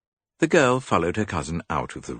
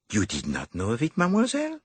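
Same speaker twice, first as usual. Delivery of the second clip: higher, fussy little detective; higher dapper detective; Poirot voice; 9 semitones higher, faster than usual. A narrator's reading. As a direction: play the clever Belgian.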